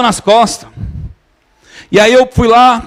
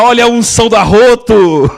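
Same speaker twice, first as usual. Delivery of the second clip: joking. Retold or imitated. Pastor jokes to the congregation about the burp, playful. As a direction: tease it like a joke among friends. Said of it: "eu comecei a brincar".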